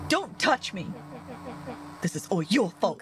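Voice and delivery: angry, hurt outburst; dejected anger. Acted. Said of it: "tone jolted to dejected anger".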